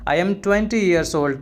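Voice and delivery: slow, carefully spelled-out English phrase; slow and clear classroom model phrase; slow teaching demo. Shown as a demonstration. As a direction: say each word slowly for the learner. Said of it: "तो मैं बोलूँगा".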